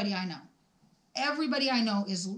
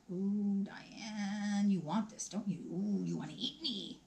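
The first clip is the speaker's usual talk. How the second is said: tempting devilish whisper; 4 dB quieter than usual. Pretend. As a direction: lure her softly like temptation. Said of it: "it's calling my name".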